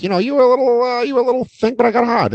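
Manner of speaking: high-pitched, rambling mock seducer; halting, high comic patter; Vince Vaughn. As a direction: imitate a movie smooth talker, pitched well up. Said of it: "That's how she talks".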